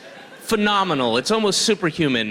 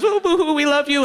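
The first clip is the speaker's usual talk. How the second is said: high, louder mock cheer; 9 semitones higher, 4 dB louder than usual. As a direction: whoop it up like a cheering crowd. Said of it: "everybody goes".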